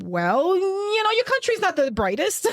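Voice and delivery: high, laughing jab at the guard; laughing retort. Retold or imitated. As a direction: laugh it off while mocking his country. Joking retort at the border.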